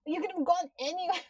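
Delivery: frustrated fast rant at the screen; exasperated rant at the character. Retold or imitated. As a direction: scold him in disbelief. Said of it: "I'm like".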